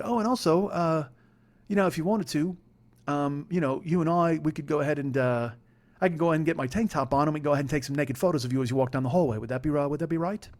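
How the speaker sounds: put-on English accent, polite and hesitant; Paul. Flatmate making an awkward request, imitated English accent. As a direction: tentatively ask in a mock English accent. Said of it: "your English accent is shit".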